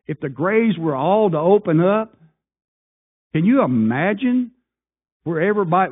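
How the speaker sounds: building from plain to a high loud peak; rising fervour. Real, not acted. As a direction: climb until the question bursts out.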